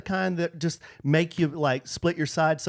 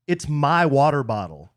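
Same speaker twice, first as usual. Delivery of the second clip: mildly annoyed retort, stress on my; understated scripted annoyance; clearly annoyed; 4 dB louder than usual. Acted. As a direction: lean on "my" in mild acted irritation. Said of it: "clearly annoyed at A E's request".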